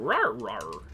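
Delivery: low growling rawr; grumbling camel voice. Pretend. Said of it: "You could just do Doom camel sound".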